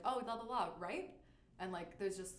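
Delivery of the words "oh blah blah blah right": "right" tagged on with rising pitch; questioning RIGHT tag. Shown as a demonstration. Guest shows the Californian habit, rising "right". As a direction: end on "right" lifted like a question. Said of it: "where we just be like".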